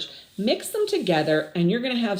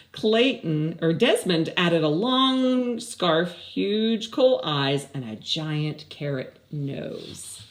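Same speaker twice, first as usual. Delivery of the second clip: lively, even storybook read; reading to children; 2 semitones lower, slower than usual. Acted. Teacher reads the story aloud to her class, lively storybook voice. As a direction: read it out like a story to little kids.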